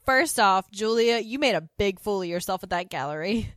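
loud scolding tirade; bossy loud rant. Retold or imitated. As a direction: raise the voice, scold them all. Voicing Suzanne's tirade.

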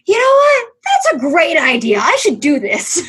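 high, loud burst of conviction; retold tequila-fuelled enthusiasm. After tequila shots, deciding to start podcast, exuberant. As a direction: shout it high, then settle slightly.

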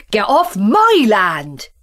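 loud slow shout; shouted back. Acted. Farmer Country yelling back at Farmer Town, loud. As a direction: throw the shout straight back. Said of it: "he shouted back".

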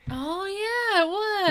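high squeaky laugh through the words; real giggly agreement. Real, not acted. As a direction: agree while cracking up. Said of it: "laughing agreement".

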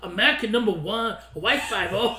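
put-on German accent. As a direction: play a terrible German guy with a German accent. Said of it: "a terrible German guy".

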